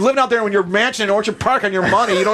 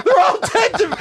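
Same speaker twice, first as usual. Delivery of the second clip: retold quote; 8 semitones higher than usual. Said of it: "He's like".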